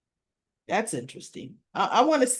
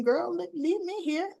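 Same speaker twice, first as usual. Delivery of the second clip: mock retort; 7 semitones higher, 5 dB quieter than usual. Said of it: "And I'm thinking".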